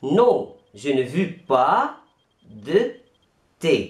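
slow, separated words; slow model answer. Shown as a demonstration. Teacher modelling a negative answer slowly. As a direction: leave gaps between words. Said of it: "أو".

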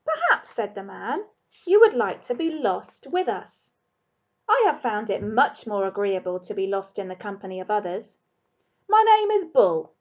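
a hint of a grand old wanderer; genial man's voice. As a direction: invite the rabbit along graciously. Bull introducing himself.

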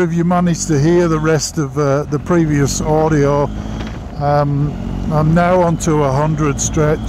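muffled behind visor; speaking while riding motorbike; talking inside a helmet. Real, not acted. Seen 5: Rider wears closed full-face helmet, visor down, throughout the ride.

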